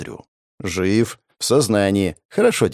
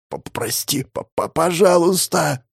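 stuttering plea; 6 semitones higher than usual. Acted. Victim stammers for mercy.

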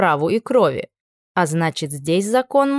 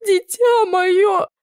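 even higher, dragged-out sobbing "дитя"; sobbing wail, higher still; 13 semitones higher, much slower than usual. A narrator's reading. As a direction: stretch "дитя моё" into a slow, rising wail. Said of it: "рыдала тётя". (ещё выше и медленнее, навзрыд «дитя моё»)

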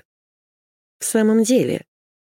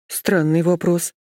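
flustered; slower than usual. A narrator's reading. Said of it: "растерялась я".

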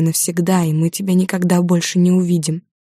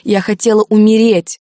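a sudden louder blurt; 4 semitones higher, 6 dB louder than usual. A narrator's reading. Daughter confessing to her parents, blurted. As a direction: blurt it out at once. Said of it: "выпалила я".

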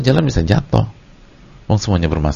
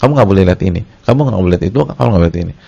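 husband forbidding wife; 4 dB louder, much faster than usual. Retold or imitated. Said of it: "seorang suami bilang ke istri".

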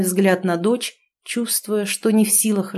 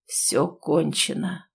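very slow, softer, lower doom; hollow tragic declaration; tragic pronouncement; 4 semitones lower, 6 dB quieter, much slower than usual. A narrator's reading. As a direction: let each word fall like a verdict. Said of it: "трагично произнёс".

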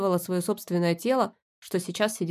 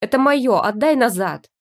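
louder, higher demanding shout; loud possessive demand; angry demand; 3 semitones higher, 6 dB louder than usual. Acted. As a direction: grab it back, furious. Demanding item back.

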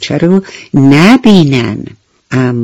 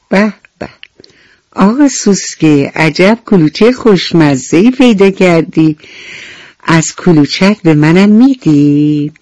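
ant voice; 3 semitones higher than usual. Acted. Ant greets beetle, asks for cookie.

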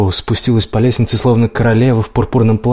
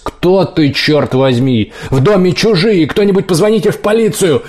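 panicked shouting; 8 semitones higher than usual. A narrator's reading. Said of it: "он запаниковал".

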